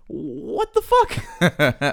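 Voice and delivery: very slow, laughing through it; stretched-out laughing disbelief. Retold or imitated. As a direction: drag it out, cracking up. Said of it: "and I'm like".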